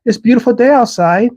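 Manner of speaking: mock breezy small talk; sing-song pretend everything is fine; fake cheer. People hiding feelings, mock cheerful small talk. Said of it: "I'm fine" syndrome".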